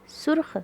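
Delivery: सुर्ख as one syllable, "surkh"; no vowel after r in सुर्ख; half-sounded r. Shown as a demonstration. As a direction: run r straight into kh in सुर्ख. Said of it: "रे की आधी आवाज़ आई".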